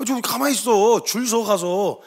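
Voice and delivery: mock telling-off from bystanders; acted grumbling reprimand; scolding to restrain. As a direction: shush someone who's showing off, stretching the endings. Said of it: "이렇게 말린단 말이죠".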